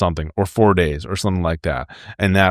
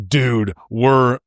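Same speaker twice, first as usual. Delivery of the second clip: mock gravelly impression, a little higher than usual; 3 semitones higher than usual. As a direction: imitate a gravel-voiced guy. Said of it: "does this really gravelly voice like".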